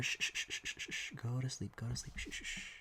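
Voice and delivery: soft hushing lullaby whisper; whispering over a crib. Pretend. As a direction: hush it to sleep like a baby. Hushing like a baby.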